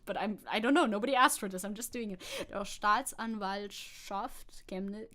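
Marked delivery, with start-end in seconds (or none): 2.5-5.1 slow, laboured Saxon accent; amateur Saxony accent; Saxony accent attempt. Shown as a demonstration. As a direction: read it slowly in a clumsy Saxon accent. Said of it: "I'm so bad at doing this accent".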